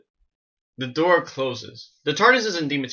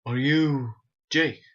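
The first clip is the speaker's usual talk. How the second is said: slow, lightly voiced Doctor; a hint of an impersonation, words drawn out; Peter Capaldi; 3 semitones higher, slower than usual. Dream Doctor asking who he is, light impression. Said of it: "impression of Peter Capaldi".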